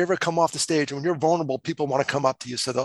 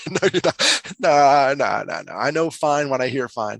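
emphatic refusal; 4 dB louder than usual. Retold or imitated. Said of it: "real conversations".

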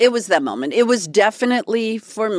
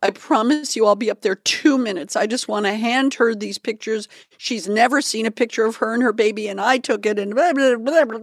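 pleading; 4 semitones higher than usual. Retold or imitated. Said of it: "said to him".

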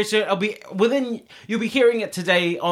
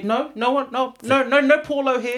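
mock stubbornness; 6 semitones higher than usual. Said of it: "I'm so arrogant, I'm so stubborn".

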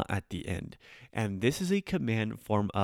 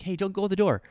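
put-on higher, scolding call to a kid; scolding big sibling; 10 semitones higher, faster than usual. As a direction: call out to stop a little kid. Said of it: "your little sister's walking out".

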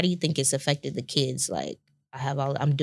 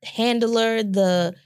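laughing; 6 semitones higher, 3 dB louder, slower than usual. Real, not acted. Teasing husband through laughter.

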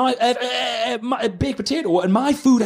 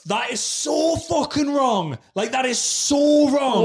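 indignant quote; 4 semitones higher, much slower than usual. Retold or imitated. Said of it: "And I was like".

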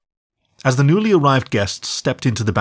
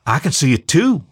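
put-on little boy voice; 5 semitones higher, 4 dB louder than usual. A narrator's reading. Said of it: "he declared".

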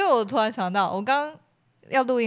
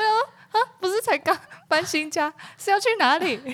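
baffled thought; 9 semitones higher than usual. Retold or imitated. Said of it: "我想说".

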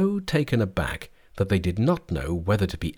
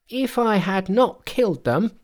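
high-pitched, defensive monkey voice; high voice of a protesting monkey; indignant Monkey; 12 semitones higher than usual. A narrator's reading. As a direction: pitch it right up and argue back.

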